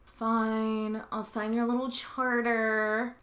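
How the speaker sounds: a light sulky king grudgingly agreeing; John impression. John giving in to the barons, lightly sulky. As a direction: grumble it like a petulant king. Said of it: "That's my John impression".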